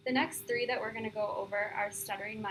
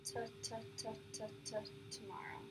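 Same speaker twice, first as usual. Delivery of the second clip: easy stuttering; 12 dB quieter, much faster than usual. Shown as a demonstration. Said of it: "Your turn".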